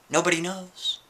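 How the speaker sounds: leise geflüstert, geheimnisvoll; whisper. Acted. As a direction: whisper it like a secret. Spooky aside to audience.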